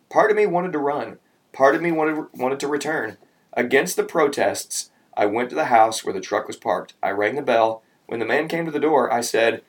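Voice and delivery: animated read-aloud storytelling; story narration. A narrator's reading. Adult reading how the driver returned, animated narration. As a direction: read the confession tale aloud with lively emphasis.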